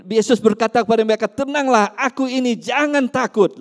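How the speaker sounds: loud, ringing sermon reading; loud scripture proclamation; preaching scripture aloud. Acted. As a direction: proclaim the verse to the congregation. Preacher reads scripture loudly.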